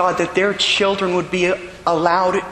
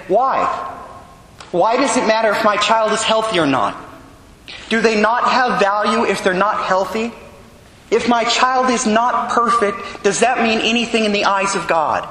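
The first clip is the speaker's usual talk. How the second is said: raised, exasperated retold questions; retold annoyance; 6 semitones higher than usual. Mother retelling her annoyance at strangers' remarks, exasperated. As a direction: voice the mother's irritation, pitched higher. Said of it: "she'd get so annoyed".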